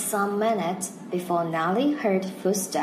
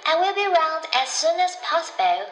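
much higher, louder promise; eager Nellie; 9 semitones higher, 3 dB louder than usual. Acted. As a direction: promise it brightly, ready to run.

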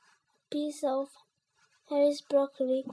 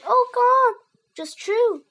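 high, loud gleeful cry; 10 semitones higher, 11 dB louder, slower than usual. A narrator's reading. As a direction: burst out with glee. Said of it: "he said gleefully".

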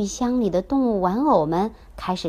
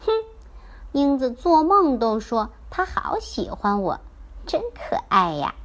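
smug; 4 semitones higher than usual. Acted. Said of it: "狐狸得意地说".

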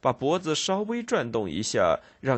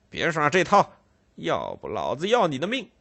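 gruff threat; 4 semitones higher than usual. Acted. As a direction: bark a threat at the boy. Constable threatens the boy.

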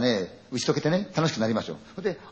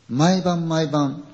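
slow, ominous; 3 semitones higher, 3 dB louder, much slower than usual. Retold or imitated. The neighbor tells the young men about the calls, very slow and ominous. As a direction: drag out 毎晩毎晩 very slowly. Neighbor's eerie ghost story line.

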